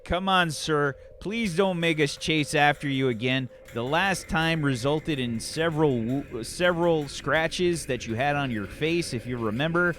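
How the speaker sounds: lightly voiced patient cop; a hint of weary, coaxing officer; pleading police officer. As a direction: plead gently with a runaway regular.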